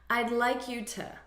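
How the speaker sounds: "to" light and quick after "I'd like you"; barely touch "to"; reduced to. Shown as a demonstration. Teacher showing the reduced preposition, light "to". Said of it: "we reduce the sound".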